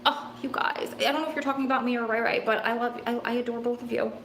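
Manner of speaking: soft, moved affection; touched, tender. Real, not acted. Streamer thanking both viewers, touched and tender. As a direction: say it quietly, overcome with fondness.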